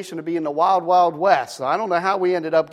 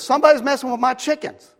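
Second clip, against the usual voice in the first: put-on country boy; 6 semitones higher, faster than usual. Neighbor voiced in the story.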